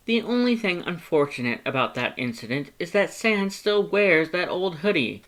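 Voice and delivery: high, loud, eager skeleton; Papyrus voice. A narrator's reading. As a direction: talk up your past like an earnest, excitable skeleton. Papyrus joking about Sans.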